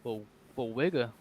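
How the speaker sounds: talking around a wad of gum; words blurred by gum in mouth; chewing gum. Real, not acted. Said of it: "I've got a piece of gum in my mouth".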